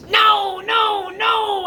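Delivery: high, loud repeated cry of no; retold panicked shout. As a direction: shout it like you're trying to stop a fight. Pleading as friend is choked.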